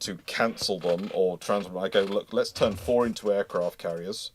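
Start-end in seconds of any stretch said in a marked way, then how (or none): none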